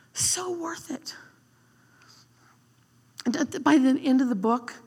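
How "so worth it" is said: soft echo. Real, not acted. Repeated softer and slower.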